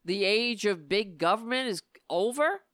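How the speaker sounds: scornful rising question; mocking quote. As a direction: quote it back in disbelief. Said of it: "echoing that shit".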